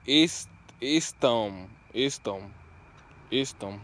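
isthmus said slowly as istum; sounding out. Shown as a demonstration. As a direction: drag it out as istum. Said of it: "I think I'm saying that right".

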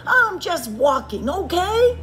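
loud, high, exasperated; shouted. A narrator's reading. Bird shouts at Fox, exasperated. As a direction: burst out, rising sharply at the end. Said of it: "shouted Bird".

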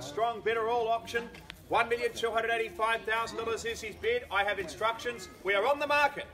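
firm, projected address to the bidders; auctioneer's announcement. Real, not acted. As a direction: formally declare the property on the market.

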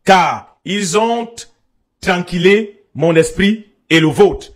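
measured scripture reading with pauses; lecture biblique à voix haute. Acted. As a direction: read the verse out deliberately, phrase by phrase. Lit un passage biblique. (lecture posée d'un verset biblique)

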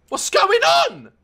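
shouting at the game as chaos unfolds, slow shout. Real, not acted. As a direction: yell it out in disbelief. Repeated, shouted take.

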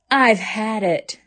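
slow, sighing defeat; weary sigh. Acted. Mother sighing that she has had it. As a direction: let it out worn and beaten. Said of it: "she sighed".

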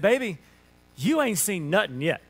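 folksy Alabama drawl; Southern drawl. Retold or imitated. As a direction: tell her in a Southern drawl. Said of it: "as only I can in my southern drawl".

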